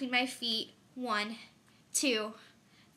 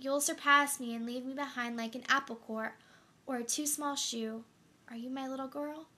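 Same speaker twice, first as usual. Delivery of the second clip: tender wonder; 2 semitones higher than usual. Acted. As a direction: marvel gently at the child. Mother speaks tenderly to daughter.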